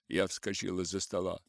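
plain reading voice

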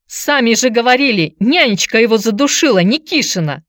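high, loud accusing cry; continued shouting. A narrator's reading. Aunt argues with visitor over the killing, shouting. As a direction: keep shouting your objection. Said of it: "продолжала кричать тётка".

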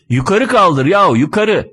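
exasperated yelling. Acted. Driver instructs passenger to lift the handle, exasperated yelling. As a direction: call it out impatiently. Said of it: "Şoför bağırıyor".

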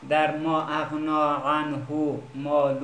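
slow, careful model recitation of ما اغنا عنه ماله; recitation demo. Shown as a demonstration. Teacher modelling the verse slowly for students. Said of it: "انشالله دقت کنین".

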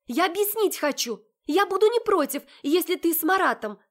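high, loud desperate calls; pleading shout. Acted. Sister Olya shouting after the heroine, pleading. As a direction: shout after her to make her listen.

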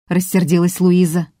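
plain reading voice

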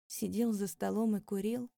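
plain reading voice

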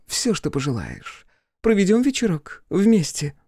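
block his way with a tipsy leer. Acted.

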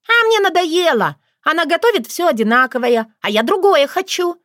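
high, loud bratty whine; whiny spoiled pouty drawl. Acted. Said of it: "закапризничала Вика".

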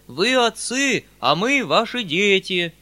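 high, loud, drawn-out plea; wailing peasant chorus. A narrator's reading. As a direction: cry out as peasants appealing to their master. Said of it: "завопили вдруг мужики целым хором". (мужицкий вопль мольбы)

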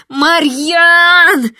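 high, loud desperate cry of his name; desperate scream. Acted. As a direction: scream into the dark for him. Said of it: "отчаянно закричала я". (отчаянный громкий крик)

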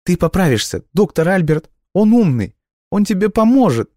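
put-on very high, loud girl's voice; desperate girl. A narrator's reading. Girl insists the doctor will save the boy, high and desperate. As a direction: insist desperately, almost crying.

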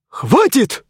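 shrieked high cracking enough; voice cracking squeal. Acted. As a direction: squeal as the voice breaks. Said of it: "пустил петуха, взвизгнув тонким голосом".

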